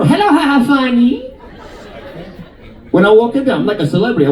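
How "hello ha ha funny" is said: put-on high, sing-out greeting in Chinese accent; hammed-up Chinese accent, pitched high; imitated Chinese accent. Nail lady hailing her regular, imitated Chinese accent. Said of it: "That's her accent".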